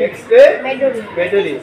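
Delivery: এক্সক্লেমেটরি said slowly in separated parts; broken into parts. Shown as a demonstration. Teacher leading pupils' pronunciation, এক্সক্লেমেটরি broken up slowly. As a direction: break এক্সক্লেমেটরি up, pausing before its ending. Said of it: "ভাঙ্গে ভাঙ্গে পড়বা".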